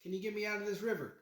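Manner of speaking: high-pitched, casual plea for rescue; mock plea for help. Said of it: "he's just kinda like".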